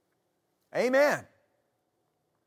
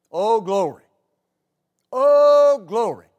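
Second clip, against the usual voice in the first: a high, loud burst of praise; excited shout; 3 semitones higher, 9 dB louder than usual. Real, not acted. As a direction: break out shouting with joy. Preacher exults mid-sermon.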